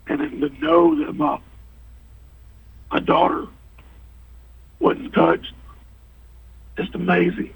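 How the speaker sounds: moved, halting between phrases; real choked-up wonder; emotional. Real, not acted. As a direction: overcome with gratitude, pausing to hold it together. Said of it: "it's an emotional deal for him".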